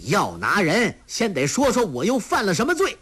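high, fast indignant challenge; stern shout. A narrator's reading. Yang Tiexin challenging the officer, indignant shout. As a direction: demand an answer with heat. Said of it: "喝道".

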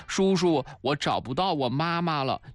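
lightly voiced child asking for help; lost child's plea. A narrator's reading. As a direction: plead a little like a child, stretching out the number.

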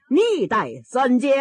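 slow, drawn-out Peking opera recitation; opera stage speech. Acted. Stuttering son tries opera speech on his mother. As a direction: declaim it like an opera line, slowly. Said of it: "他先说一句道白".

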